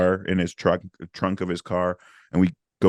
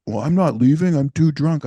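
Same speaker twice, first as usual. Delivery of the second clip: put-on drunk guy; 8 semitones higher, 5 dB louder than usual.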